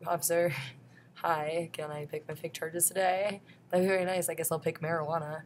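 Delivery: sweetly asking the cop, hammed-up; mock polite to police. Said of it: "that's what I say to them every time".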